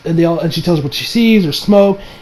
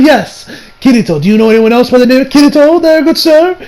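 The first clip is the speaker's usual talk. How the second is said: higher, rising mock-polite question; sarcastic reply; 6 semitones higher than usual. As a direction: answer with exaggerated politeness, climbing in pitch. Acted sarcastic reply to himself.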